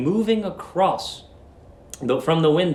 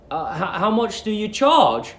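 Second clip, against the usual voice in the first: lightly voiced stammering Billy; 5 semitones higher than usual. Billy nervous.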